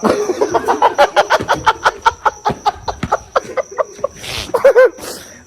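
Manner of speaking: long burst of high laughter; loud laughter. Real, not acted. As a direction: crack up hard.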